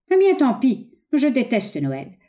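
high, loud start, then slowing on the hatred; hateful outburst. Acted. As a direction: dismiss him, then spit out your loathing. Son spurns brother in acted dialogue. (éclat de haine, voix haute)

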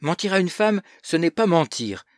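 high, loud, emphatic verdict; categorical. A narrator's reading. Schoolboy corrects his cousin on lying to women, categorical. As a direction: lay it down as indisputable. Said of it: "d'un ton catégorique".

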